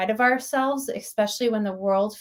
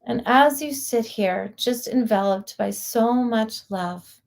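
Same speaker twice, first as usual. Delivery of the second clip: guided meditation. Real, not acted. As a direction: guide listeners inward, lingering on words with long pauses.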